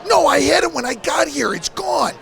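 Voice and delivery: imitating a friend shouting in disbelief; retold angry shout. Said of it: "He goes".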